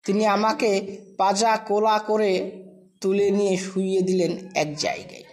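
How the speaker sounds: ordinary delivery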